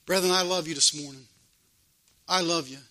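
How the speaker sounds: gentle pastoral aside; tender reassurance. Real, not acted. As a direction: drop the volume and reassure them sincerely. Preacher reassures his congregation.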